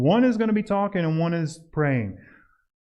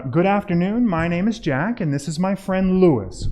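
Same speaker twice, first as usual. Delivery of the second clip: demo introduction; 4 semitones higher, 3 dB louder than usual. Shown as a demonstration. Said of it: "So, uh".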